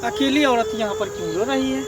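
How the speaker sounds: hushed aside. Acted. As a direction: think aloud under your breath. Policeman's aside on spotting her.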